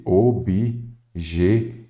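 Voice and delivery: OBJETIVO in slow separate syllables, TI strongest; stress on TI. Shown as a demonstration. Teacher asking which syllable is stronger, OBJETIVO slowly with stress on TI. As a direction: sound out "Objetivo", leaning hard on TI. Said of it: "a sílaba que você fala mais forte".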